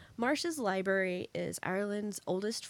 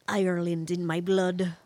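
terrible mock Irish accent, louder; attempted Irish accent; 6 dB louder than usual. Co-host jokes about own ancestry, attempted Irish accent. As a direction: have a bad go at an Irish accent. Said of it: "That was terrible, but I'll do it anyway".

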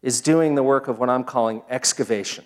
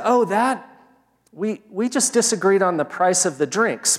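lightly imitated driver, higher as it comes back to him; offhand recollection; 5 semitones higher than usual. Driver brushing off the bar argument to his passenger, mock offhand recollection. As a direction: retell it as a trifle just remembered, pitched up. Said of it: "like he had to be reminded".

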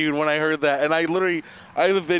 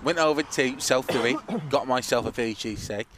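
put-on Boston accent; 2 semitones lower, 4 dB quieter than usual. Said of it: "You sound like Colin Farrell".

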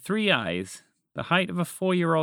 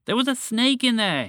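high, raised, panicky voice; alarmed shout; 10 semitones higher, 4 dB louder than usual. A narrator's reading. Frog escaped from bush to his friend, shouting. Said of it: "he shouted at her".

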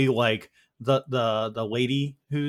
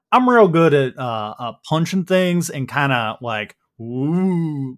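boastful Texan, starting loud; Dan, Texas accent; 4 dB louder than usual. Acted. Dan brags about punching things, Texas accent. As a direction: flex it with a Texas twang. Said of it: "flexing a big muscle".

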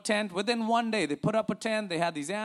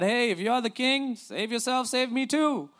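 mock sarcastic taunt; 3 semitones higher than usual. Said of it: "as sarcastic as they get".

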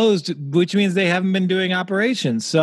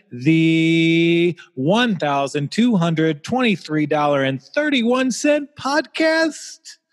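announcer intro; 2 semitones lower, slower than usual. Acted. Co-host welcomes listeners to the podcast, slow announcer voice. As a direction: roll out the title like a big radio open. Hosts a mock show opening.

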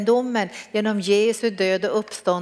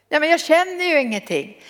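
plaintive; 7 semitones higher than usual. Retold or imitated. Retold new believer's lament.

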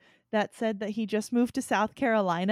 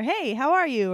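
friendly greeting; 3 semitones higher, 5 dB louder than usual. Retold or imitated.

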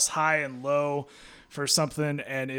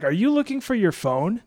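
teasing wife; 7 semitones higher, 4 dB louder than usual. Retold or imitated. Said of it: "she's like".

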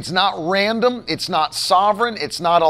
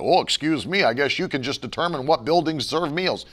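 low, softer sarcastic mimicry; mocking objector; 5 semitones lower, 4 dB quieter than usual. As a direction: imitate a scoffing critic in a dropped voice.

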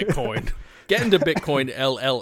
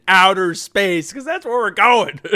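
rising, louder, gleeful pitch; excited pitch; 6 semitones higher, 7 dB louder than usual. Pretend. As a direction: build it up like a carnival barker. Pitching outer space.

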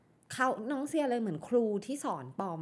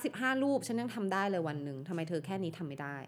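stern boss voice. Retold or imitated. Studio boss scolding a young employee, cold and stern. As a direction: demand it like a boss who is unimpressed. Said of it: "แล้วใช้เสียงแบบเนี้ย".

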